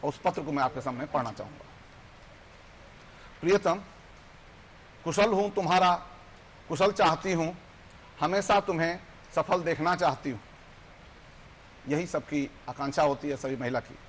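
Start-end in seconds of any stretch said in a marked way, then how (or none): 3.4-10.4 measured, declaimed letter poem; poem recitation. Acted. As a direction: recite it line by line, with pauses. Recites own letter poem aloud.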